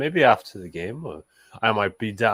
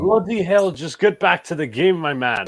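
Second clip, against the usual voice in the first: mock British accent; 5 semitones higher, 3 dB louder than usual. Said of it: "he has an intention for one accent".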